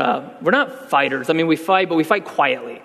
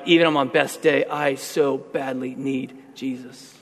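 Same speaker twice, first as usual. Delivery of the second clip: humble confession. Retold or imitated. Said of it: "came back and said".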